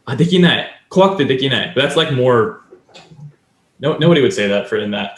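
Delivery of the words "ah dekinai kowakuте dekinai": raised, louder "Ah, dekinai"; a mock frightened plea, up and louder; scared refusal. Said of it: "Or, um".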